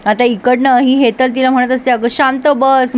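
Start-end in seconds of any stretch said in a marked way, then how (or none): 1.9-3.0 imitating Hetal's tone. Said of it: "मला हेतलचा tone खूप आवडतो".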